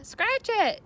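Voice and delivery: high, loud teasing yell. A narrator's reading. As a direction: toss it back with a jeer. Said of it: "yelled Avery".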